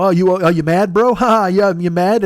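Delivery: jeering imitation of an online heckler; mocking troll zinger. Online troll zinging someone upset, mock jeering. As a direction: taunt with a fake laugh. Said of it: "people think they're zinging you with it".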